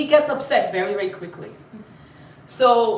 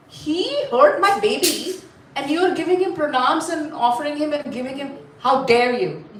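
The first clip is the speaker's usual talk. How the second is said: indignant mother; 2 semitones higher than usual. Acted. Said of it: "She said to Shankarji, "How dare you?".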